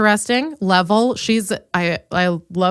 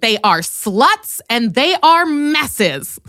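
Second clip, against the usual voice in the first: slow, drawn-out imitation of hateful delivery; mock hateful; 4 semitones higher, much slower than usual. Imitating the sister saying it with hate. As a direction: drag it out with mock contempt. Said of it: "saying it with such hate in your voice".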